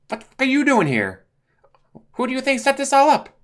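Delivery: high, loud put-on voices; confronted villain voices. Deadshot confronting Joker, high loud put-on voices. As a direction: snap the question, then gloat.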